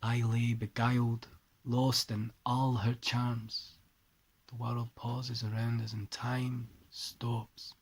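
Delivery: put-on poem read in a light Scottish accent. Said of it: "excuse the Scottish accent".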